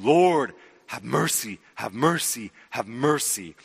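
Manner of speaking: MERCY hit in each identical, falling repeat; repetitive drumming plea. Acted. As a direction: drum out "have mercy" in even, insistent beats. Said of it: "repetitive drumming".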